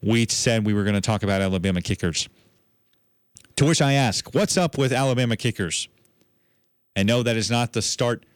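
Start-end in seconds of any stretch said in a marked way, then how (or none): 3.6-5.9 higher-pitched, lightly comic setup question; comedy-routine setup. Shown as a demonstration. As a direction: pose it like the opener of a comedy bit. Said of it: "cheesy sketch comedy routine".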